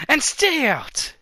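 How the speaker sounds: slow, high, loud put-on voice ordering her out; angry dismissal. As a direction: drag out the words as you bark her away. Character throws someone out.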